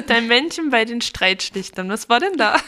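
loud amused laughing question. Real, not acted. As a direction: laugh through the words, teasing. Amused at the confession. (lachend und neckend)

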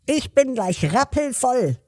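very high squeaky cup voice. A narrator's reading. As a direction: chirp it like a tiny talking cup. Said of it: "sagte die Tasse".

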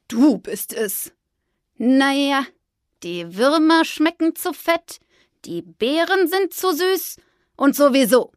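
put-on slow, grumbling old bird; grumpy magpie. The magpie grumbles to Fridolin, slow grumpy magpie. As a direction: complain about everything like a sulky bird.

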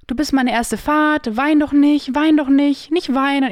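imitating a flustered driver's plea; imitated pleading. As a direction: beg someone not to cry, lightly acted. Driver begs crying passenger to stop.

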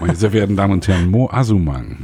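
disguised deep voice. Pretend. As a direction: put on a deep fake voice. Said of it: "mit verstellter Stimme".

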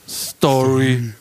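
put-on slow, drawn-out drunken repeat; drunk Chris. Drunk friend answers the bouncer's refusal, drawn-out drunken delivery. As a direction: imitate a drunk friend stubbornly offering one word. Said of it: "dann guckte Chris wieder und sagte nur".

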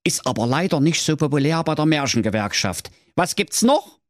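exclaim, then rush on; high cranky old-man exclamation; Wilhelm calling out. Acted. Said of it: "rief der Wilhelm".

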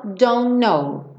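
don't know run together with no T, "do-know"; teacher blends don't know without the T; linked don't know. Shown as a demonstration. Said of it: "o T e o N são feitos no mesmo lugar".

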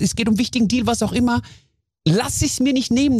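normal talking voice

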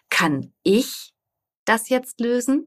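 "ich" lifted and leaned on, pause before "das jetzt lösen"; who, me? stress on "ich". Shown as a demonstration. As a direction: put the weight on "ich", then a slow "das jetzt lösen". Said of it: "du kannst ihn ja immer anders betonen".

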